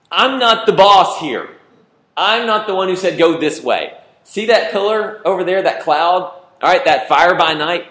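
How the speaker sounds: exasperated Moses. Acted. Moses insisting he's only following the cloud, high and loud. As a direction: plead your innocence as Moses. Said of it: "Moses going".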